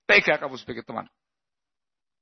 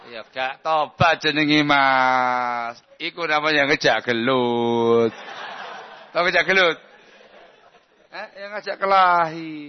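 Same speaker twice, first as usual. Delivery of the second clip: laughing explanation; 2 semitones higher than usual. Real, not acted. Laughing while explaining picking fights.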